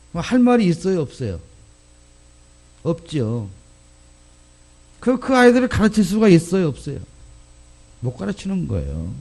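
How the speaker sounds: normal talking voice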